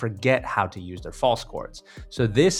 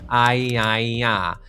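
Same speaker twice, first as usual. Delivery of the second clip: nasal ah; 4 dB louder, much slower than usual. Shown as a demonstration. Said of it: "do a nasal".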